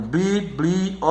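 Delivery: each syllable of "biblioteca" on its own. Shown as a demonstration. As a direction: evenly split bi-bli-o-te-ca. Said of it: "você divide a sílaba".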